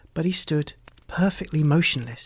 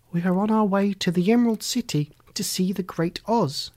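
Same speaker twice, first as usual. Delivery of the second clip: put-on higher voice for a girl; lightly voiced Dorothy; 4 semitones higher than usual. Dorothy answering the Tin Man, lightly voiced higher. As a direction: lift it lightly into a girl's voice.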